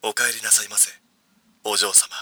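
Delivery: low, soft butler voice; sugary maid cafe greeting. Shown as a demonstration. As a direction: purr it like a devoted butler. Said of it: "とりあえず聞いてみようぜ。".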